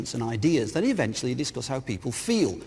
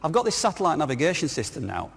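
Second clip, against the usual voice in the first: normal talking voice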